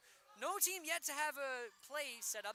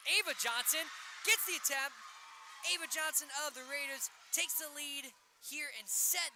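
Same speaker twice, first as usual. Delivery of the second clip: excited shout; 2 semitones higher, 5 dB louder than usual. Real, not acted. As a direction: shout the go-ahead point. Go-ahead point, live call.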